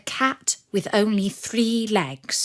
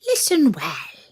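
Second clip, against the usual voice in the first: sly wolf. Acted. The wolf confiding in the dog, hushed and secretive.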